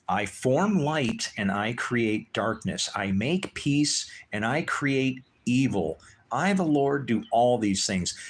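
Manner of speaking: slow, solemn reading of scripture; scripture recital. Acted. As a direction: read it out like a preacher quoting the Lord.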